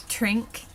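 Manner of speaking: "trink", drink with a dental D; Irish-style drink, nearly "trink". Shown as a demonstration. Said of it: "and the dental D".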